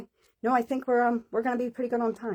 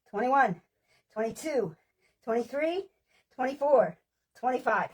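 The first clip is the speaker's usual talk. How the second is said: counting reps; 3 semitones higher, slower than usual. Acted. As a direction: drive them through the set, number by number. Counting reps aloud for class.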